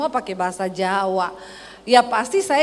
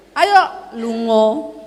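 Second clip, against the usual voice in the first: slow, drawn-out Solo intonation; Solo accent; 3 semitones lower, 3 dB louder, much slower than usual. Retold or imitated. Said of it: "kadang dia ingat". (logat Solo pelan, nada belakang turun)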